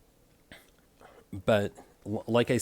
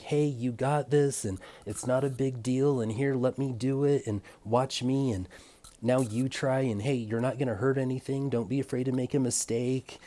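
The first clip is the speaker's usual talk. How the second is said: big brotherly encouragement; 2 semitones higher than usual. Retold or imitated. To a nervous new trainee at work, gently encouraging. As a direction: reassure a nervous trainee, arm round the shoulder. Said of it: "bring out that big brotherly energy".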